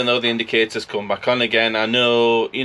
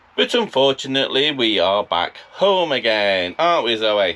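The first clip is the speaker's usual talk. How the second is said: normal talking voice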